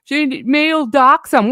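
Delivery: sarcastic imitation of a scared claim, drawn out; mocking her claim. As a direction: parody her fake fear. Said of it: "she tried to say that".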